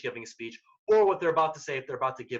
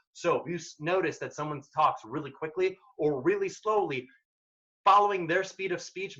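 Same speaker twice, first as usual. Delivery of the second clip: ordinary talk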